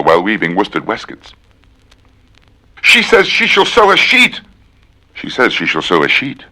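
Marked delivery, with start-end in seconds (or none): 2.8-4.4 a silly high put-on voice; high squeaky voice. Reciting tongue twisters, high cartoon squeak.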